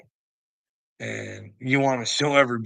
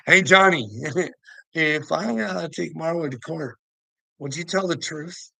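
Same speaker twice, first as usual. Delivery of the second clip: higher-pitched imitation of asking Johnny; loud call-out, then a higher question; retold appeal; 5 semitones higher, 4 dB louder than usual. Asking Johnny about court, higher-pitched mock appeal.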